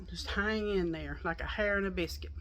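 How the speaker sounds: breathless, airy half-whisper; out of breath. Real, not acted. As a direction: talk while still catching your breath. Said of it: "I'm out of breath".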